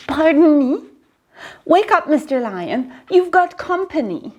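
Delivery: a timid mouse tapping a lion awake; lightly voiced mouse waking the lion; small mouse voice. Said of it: "Mouse peeped".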